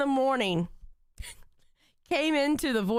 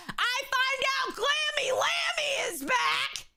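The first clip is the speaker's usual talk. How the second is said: excited whisper; 9 semitones higher, slower than usual. Real, not acted. Excited news, voiced high.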